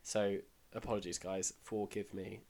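tired, croaky and low. Real, not acted. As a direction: speak like you're unwell. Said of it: "You are very unwell".

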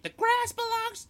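high, loud mock proclamation; retold yelling back. Drunk trainee answering the officer, high retold yell. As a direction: yell it back slowly and defiantly. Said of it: "I just yelled back".

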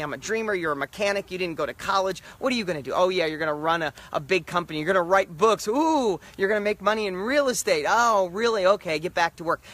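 scoffing, sarcastic jabs at a dreamer; mock the kid with big plans; mocking coworkers. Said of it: "they tell me".

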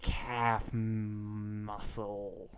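imitating an American accent, stretching "calf"; American accent impression. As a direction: lightly mimic your friend's American accent. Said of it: "who has the better accent".

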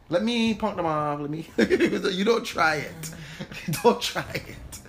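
chuckling mock threat, slowed; half-laughing don't try it; laughing warning. Real, not acted.

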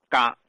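嘎 as "ga", hard g onset; ancient pronunciation. Shown as a demonstration. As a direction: demonstrate old-style 嘎 with no j glide. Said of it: "最早读成嘎".

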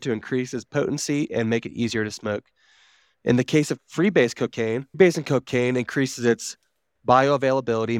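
even, measured explainer narration; informational read-aloud. Real, not acted. Reading drug facts to co-hosts, informational read-aloud. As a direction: read it out like a factual article.

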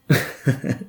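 short soft laugh; breathy chuckle after a punchline. Real, not acted. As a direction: laugh it off quietly. Laughs after his own punchline.

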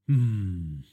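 sighing, drawn-out hum; heavy sigh. A narrator's reading. Father hears driver didn't answer, heavy sigh. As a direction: let out a sighed "hmm". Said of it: "Naresh's sigh filled the room".

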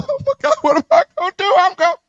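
high, fast, hammed-up wail; mock panic. Heartbroken man panicking when his girl moves on, hammed-up panic. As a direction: squeal in comic desperation.

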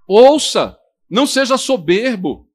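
a sudden loud shout of Ouça; forceful command. Real, not acted. Preacher shouting at the church to listen, loud. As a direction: bark the word out to the congregation.

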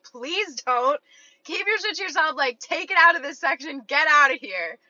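emphatic retold rebuff; acted exasperated dismissal. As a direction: shoo him away, retold with mild force. Acts her rejection of the guy.

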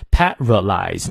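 "paralyze" slowly, every syllable complete; fully articulated. Shown as a demonstration. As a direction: sound out "paralyze" in full. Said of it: "念到位".

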